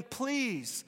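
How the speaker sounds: a hushed, mild acted plea; quiet begging. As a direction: beg gently to be set free. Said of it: "he's begging".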